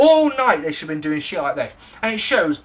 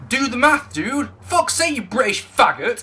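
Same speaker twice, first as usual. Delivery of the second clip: mock American insult; 4 semitones higher than usual. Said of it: "I got called".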